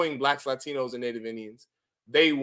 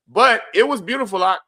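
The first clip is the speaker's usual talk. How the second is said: excited praise; 5 semitones higher, 7 dB louder than usual. Real, not acted. Praising the Iranian video.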